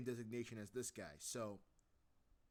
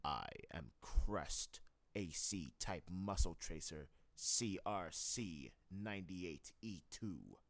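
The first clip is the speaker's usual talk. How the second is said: lower, slow mech announcing itself; Crest voice retake; 6 semitones lower, slower than usual. Shown as a demonstration. Redo of the Crest line, low and slow. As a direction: state the designation low and steady. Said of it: "redo that take again".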